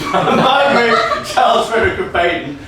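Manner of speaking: repeating the name through laughter; giggling while repeating; laughing. Real, not acted. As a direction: chuckle the name out.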